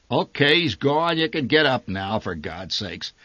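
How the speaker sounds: a touch of scorn from the father; scornful. Acted. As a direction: sneer that the danger is over. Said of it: "His voice dripped with scorn".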